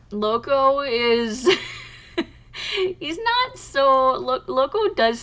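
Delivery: laughing through the words; can't keep a straight face about the husky. Real, not acted. Laughing while describing her stubborn husky to viewers.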